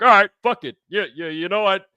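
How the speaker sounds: high, loud, exasperated put-on voice; hammed-up resigned friend; imitating Andrew giving up. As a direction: throw up your hands and quit in mock disgust. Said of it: "He's like".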